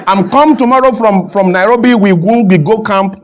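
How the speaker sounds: lightly mimicked broken English; coach's halting match plans, lightly imitated; Clemens Westhoff. Coach announcing camp to the media, light impression. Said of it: "That's how he talks".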